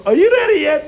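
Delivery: high, loud mock Arabic accent; mock Arabic accent, calling out; mock Iraqi accent. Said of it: "Iraqi accent".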